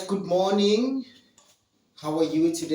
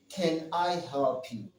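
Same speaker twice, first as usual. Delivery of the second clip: polite offer; 5 dB quieter than usual. Shown as a demonstration. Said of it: "you say".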